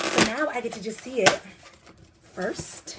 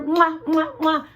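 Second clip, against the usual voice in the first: kissing sounds; 8 semitones higher, 8 dB louder, slower than usual. Real, not acted. Kissing the book.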